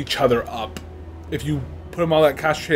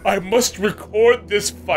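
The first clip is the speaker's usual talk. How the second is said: lightly put-on character voice, raised pitch; slightly higher mock declaration; imitating Ubin; 5 semitones higher than usual. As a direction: act out an earnest onlooker a little higher. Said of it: "Ubin's like".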